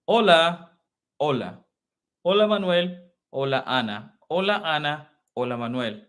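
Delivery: livelier, looser hola; casual greeting. Shown as a demonstration. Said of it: "This is formal".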